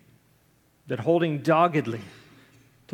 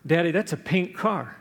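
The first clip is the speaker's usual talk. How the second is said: horrified; 2 semitones higher than usual. Retold or imitated. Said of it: "Harry said in horror".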